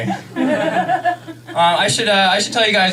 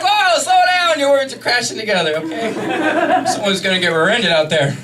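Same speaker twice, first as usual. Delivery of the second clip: higher, put-on sportscaster delivery; 8 semitones higher than usual. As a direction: play a quick-talking commentator. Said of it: "And she'd be like".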